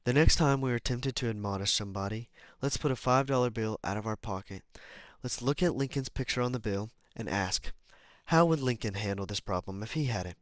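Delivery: measured, clearly projected book reading; deliberate read-aloud delivery; audiobook narration. Acted.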